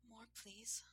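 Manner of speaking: high whispered request. A narrator's reading. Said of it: "she whispered".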